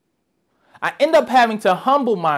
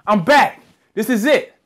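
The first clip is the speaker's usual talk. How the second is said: louder, higher triumphant announcement; 4 semitones higher, 4 dB louder than usual. Retold or imitated. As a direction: crow it out, back on top. Triumphant after booking campaign.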